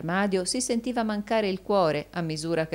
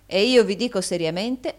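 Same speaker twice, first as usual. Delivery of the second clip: louder, moderately raised, far less high-pitched reply; stern echo of the other's phrase; firm retort; 6 semitones higher, 7 dB louder than usual. A narrator's reading. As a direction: throw the words back firmly. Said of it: "soggiunse Rodolfo".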